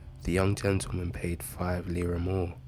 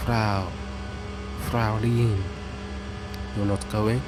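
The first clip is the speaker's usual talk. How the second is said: shouting after her; 3 semitones higher, slower than usual. Acted. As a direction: call out to the leaving woman. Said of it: "he shouted".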